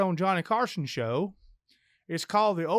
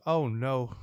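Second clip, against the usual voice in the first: subdued dismay; 6 semitones lower than usual. Acted. Widow hears of the drowning.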